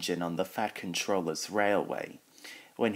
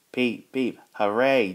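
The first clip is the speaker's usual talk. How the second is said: high, loud happy toots; whistling cheer; 4 semitones higher, 7 dB louder than usual. A narrator's reading. James celebrating keeping his red paint, whistling cheer. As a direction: toot like an engine, then cheer. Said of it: "James whistled".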